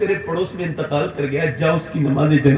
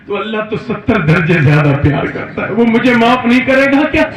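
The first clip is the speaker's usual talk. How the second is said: crying; 4 semitones higher, 7 dB louder than usual. A narrator's reading. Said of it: "یہ رو رو کے بولا".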